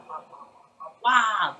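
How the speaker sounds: vary the rhythm of the wahs; creature syllables. Shown as a demonstration. Actor demos another syllable pattern, a hushed creature. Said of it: "or I can do".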